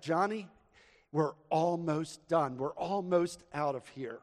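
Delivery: lightly imitated dad, measured and reassuring; patient father. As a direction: retell a dad patiently soothing his child. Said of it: "blown away by the patience of this father".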